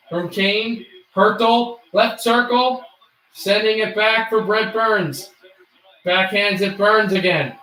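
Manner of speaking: steady sportscaster call; hockey play-by-play. Acted. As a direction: narrate the hockey game live.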